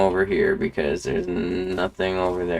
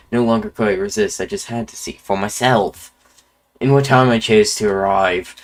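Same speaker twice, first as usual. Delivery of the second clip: lightly put-on Irish accent; a hint of Irish in a storytelling explorer; Jacksepticeye accent. Quirrell telling the player why he came, light Jacksepticeye Irish accent. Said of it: "gave him the Ja-, Jacksepticeye accent".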